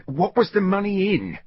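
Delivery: the guard inquires; guard questioning. Acted. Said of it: "asked the guard".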